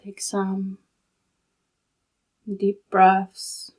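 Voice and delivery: calm, unhurried meditation guide with long pauses; soothing, even delivery in short, spaced-out phrases; guided meditation. Real, not acted. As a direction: guide them gently into stillness, leaving long silences.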